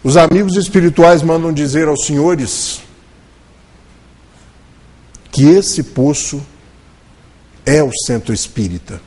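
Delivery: medium's message tone. Retold or imitated. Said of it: "muda a entonação".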